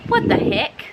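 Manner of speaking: high breathless exasperated what the heck; unvoiced, high-pitched outrage. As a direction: gasp it out in disbelief. Annoyed at mom dumping coffee.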